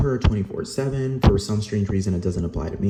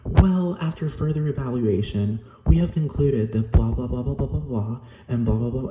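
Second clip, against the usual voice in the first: higher-pitched parody of officialese; mock formal; 3 semitones higher than usual. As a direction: mimic a formal rejection notice, tailing into dismissive blahs. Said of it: "in, like, this formal language".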